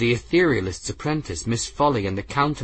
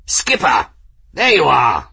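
eager hail; 5 semitones higher, 7 dB louder than usual. Acted. Engineer caught, hails captain.

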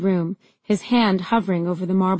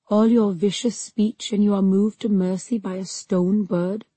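dark purr. Acted. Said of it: "his voice was a dark purr in my ear".

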